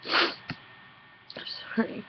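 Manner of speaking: choked, breathy whisper through tears; real tearful near-silent apology; holding back tears. Real, not acted. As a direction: barely get it out, fighting tears. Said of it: "I'm trying not to cry".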